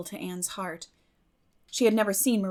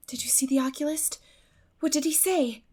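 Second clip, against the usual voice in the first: worried questions, higher; anxious; 7 semitones higher than usual. A narrator's reading. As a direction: ask with a hint of worry. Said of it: "asked Anne anxiously".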